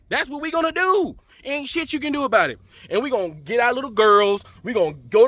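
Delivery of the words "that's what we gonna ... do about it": taunting. Pretend. Showing off the cookout dance.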